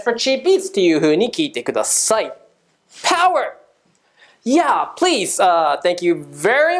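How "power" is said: high, punchy catchphrase call; pumped-up signature shout. Acted. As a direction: punch it out like a show slogan.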